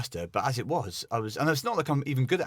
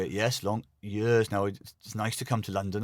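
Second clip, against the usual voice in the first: put-on Welsh accent; 3 semitones lower than usual. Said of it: "And I'd go".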